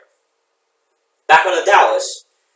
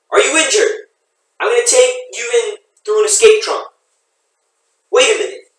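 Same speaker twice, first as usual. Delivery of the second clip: raised urgent voice; loud; 9 semitones higher, 5 dB louder than usual. Acted. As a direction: call out urgently. Sailor yelling at rescued man.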